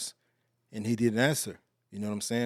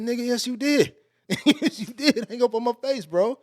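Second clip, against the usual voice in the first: heated insisting; 10 semitones higher than usual. Retold or imitated. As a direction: shout him down, he's lying. Arguing back at the pastor.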